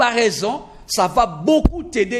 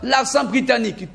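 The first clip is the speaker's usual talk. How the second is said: higher-pitched mock learner's musing; raised, wishful imitation of a learner; 6 semitones higher than usual. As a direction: voice a beginner fretting over which accent to copy. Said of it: "ne te dis pas".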